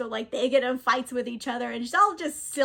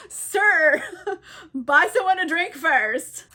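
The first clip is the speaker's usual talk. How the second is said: laughing, louder mock protest; mock indignation; 4 semitones higher, 5 dB louder, slower than usual. Caliban objects to man under his skirts, laughing mock indignation. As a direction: burst out with it through giggles.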